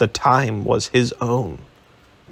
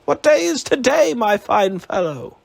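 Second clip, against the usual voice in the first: repeated eagerly; 10 semitones higher than usual. A narrator's reading. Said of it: "repeated Scrooge".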